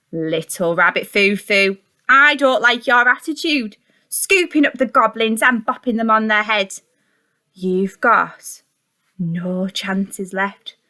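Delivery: storybook fairy scolding a rabbit; stern fairy. Acted. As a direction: tell off the naughty bunny with slow, measured warnings. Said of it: "Down came the good fairy and said".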